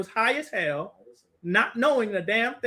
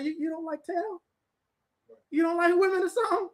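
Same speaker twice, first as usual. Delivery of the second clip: higher, incredulous questioning; surprised disbelief; 5 semitones higher, 4 dB quieter than usual. Retold or imitated. Teacher asks the visitor in higher, disbelieving voice. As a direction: sound stunned he doesn't like women. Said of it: "I was like".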